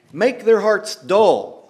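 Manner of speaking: very slow, every word leaned on; slow weighted command. Shown as a demonstration. Preacher restating God's order to Isaiah, slow and heavy. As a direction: spell out the command slowly.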